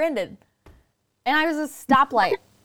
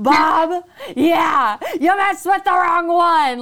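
slow, louder, higher taunt; mock menacing threat; 4 semitones higher, 6 dB louder, much slower than usual. Pretending to show up at a jerk's house, menacing. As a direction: lean in like you've come for revenge. Imagined threat to road rager.

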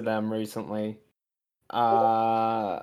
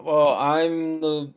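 slow, spooky ghost voice, higher and louder; 4 semitones higher, 3 dB louder, slower than usual. Pretend. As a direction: drag it out like a haunting ghost. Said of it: "in the ghost voice".

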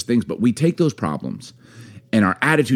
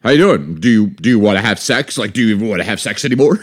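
mock hesitant, needy asking; pleading partner, played for laughs; needy complaint; 4 dB louder than usual. Shown as a demonstration. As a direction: fumble the question, then quicken into complaint. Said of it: "just change the tone a little".

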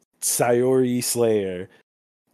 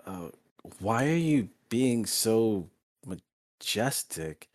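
lightly voiced boy, slow and softer; puzzled boy; 5 dB quieter, slower than usual. Boy questions Ryota's grand introduction, mildly puzzled. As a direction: ask slowly, a hint of bafflement. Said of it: "the boy goes".

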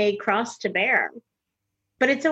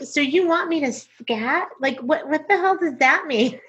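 incredulous; 6 semitones higher than usual. Retold or imitated. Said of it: "of course, like".

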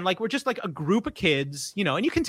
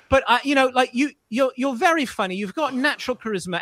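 higher, gushing bad British accent; flattering British director; 5 semitones higher than usual. Director flattering the kid into a part, imitated British accent. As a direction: pour on compliments in a rough British accent. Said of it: "he's just pouring on the compliment".

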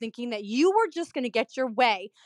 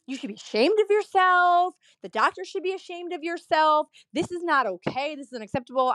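imitating an angry patient, higher at first; mock outrage, pitched up then settling; indignant scolding; 5 semitones higher than usual. Angry patient scolds the office staff, indignant mock tirade.

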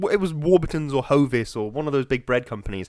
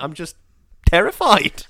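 mock terrified; 3 semitones higher, 5 dB louder than usual. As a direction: act a rattled advert viewer. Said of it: "everybody's watching the advert like".

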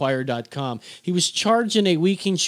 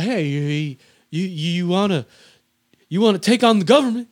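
halting politician impression, rising to a quicker push; Biden. Host attempting the president's challenge to gun owners, rough impression. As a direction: stammer the start, then challenge them in a put-on statesman voice. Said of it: "he sounds like Bill Clinton. I, I'll, I'll work on the Biden".

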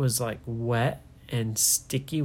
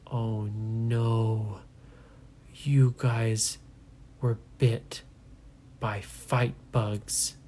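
ominous; 2 semitones lower, much slower than usual. Acted. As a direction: drop the dread slowly. Parents grave revelation.

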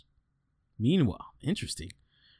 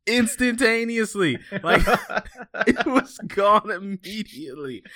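laughing disbelief; 10 semitones higher, 3 dB louder, slower than usual. Real, not acted.

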